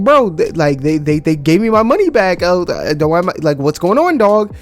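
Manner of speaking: exasperated rant. Retold or imitated. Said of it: "'Cause I'm like".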